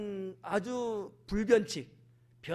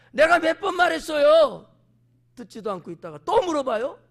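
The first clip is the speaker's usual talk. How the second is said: loud, raised, fed-up complaint; exasperated retort; 7 semitones higher, 11 dB louder than usual. Acted. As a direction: snap back at them for asking again. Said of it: "막 이러는 거지".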